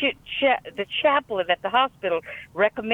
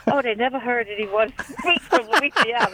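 laughing; 4 semitones higher than usual. Retold or imitated. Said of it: "He said".

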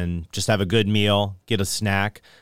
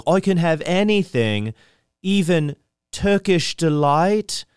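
put-on eager boy voice; 8 semitones higher, slower than usual. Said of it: "He's like".

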